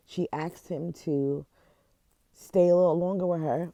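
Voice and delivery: fighting back tears as the story hits; tearful. Real, not acted. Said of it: "I don't know why I'm crying".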